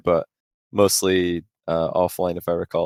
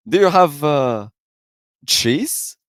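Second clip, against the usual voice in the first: mock naive question; 7 semitones higher, much slower than usual. Retelling Greasy's naive question.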